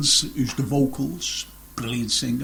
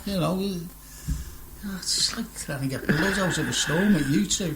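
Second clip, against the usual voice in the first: whispered aside; 3 semitones higher, 6 dB quieter than usual. Real, not acted. Presenter teasing his quiet guests in a whisper. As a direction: whisper the jab like a secret.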